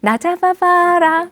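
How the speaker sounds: slow, high singsong teasing; drawn-out playful lovers' taunt. Acted. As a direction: tease your sweetheart to give chase. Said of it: "유치하게".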